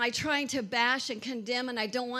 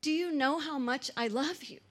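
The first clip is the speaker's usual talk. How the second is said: tender God voice; 2 semitones higher than usual. Acted. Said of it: "God says".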